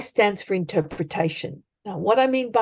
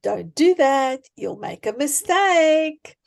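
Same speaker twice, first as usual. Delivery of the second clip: a hint of a nagging inner voice, higher on the warning; slowly and lightly voice the doubting gremlin; 4 semitones higher, slower than usual. Coach voices the gremlin on your shoulder, mild nagging warning. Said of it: "the little voice that sits on your shoulder and says".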